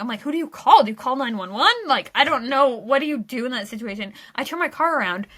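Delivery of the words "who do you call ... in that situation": mock panic. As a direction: retell a mildly panicked what-do-I-do moment. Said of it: "I'm, like, so panicked".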